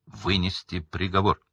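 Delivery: loud and clear sentencing. A narrator's reading. Crouch sentencing prisoners, growing loud. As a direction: voice swelling with condemnation. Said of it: "громко и ясно произнёс он".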